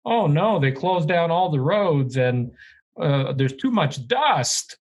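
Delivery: mock a complainer, starting high; mock complaint. Host parodies the home buyer's complaints, mock whining.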